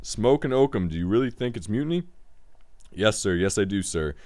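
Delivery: animated read-aloud, strong openings easing down; story narration. A narrator's reading. Game host reading the next story beat to the player, story narration. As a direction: narrate the tale with clear projection.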